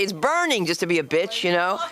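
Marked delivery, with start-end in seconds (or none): 0.0-0.7 mock possessed whine. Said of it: "I would say".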